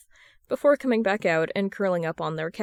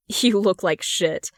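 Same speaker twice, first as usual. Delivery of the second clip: blunt; slower than usual. Acted. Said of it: "she says bluntly".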